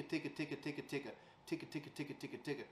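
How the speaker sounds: ticka, ticka said quietly at an even pace; steady, soft ticka; slow steady ticka. Shown as a demonstration. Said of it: "just a slow and steady ticka".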